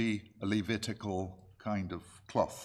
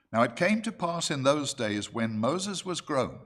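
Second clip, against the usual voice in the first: raised, measured Bible-reading voice; scripture reading; 4 semitones higher, 3 dB louder than usual. Acted. Preacher reads Exodus to the congregation, scripture reading. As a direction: read the verse out clearly to a congregation.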